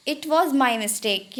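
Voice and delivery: very slow, every word separated; Hindi: बहुत धीरे, हर शब्द अलग; slow model phrase. Shown as a demonstration. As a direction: say it slowly for students to copy. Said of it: "या".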